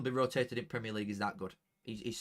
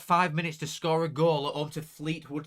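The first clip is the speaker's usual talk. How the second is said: slow, loud plea to the team; loud urging call; 5 semitones higher, 8 dB louder than usual. Real, not acted. Streamer urging Bradford to score, loud and slow.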